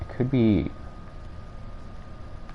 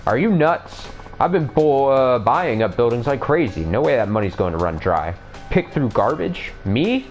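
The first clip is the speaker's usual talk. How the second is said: high, indignant yelling; outraged, voice jumping up; angry thug; 3 semitones higher than usual. Acted.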